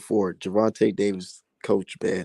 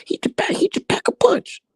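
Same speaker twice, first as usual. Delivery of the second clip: mocking commentators. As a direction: parody the analysts, rising into a shrill squeak. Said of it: "niggas on the fucking mic saying".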